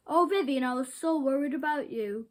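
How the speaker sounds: relieved cry. Acted. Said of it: "cried her mother".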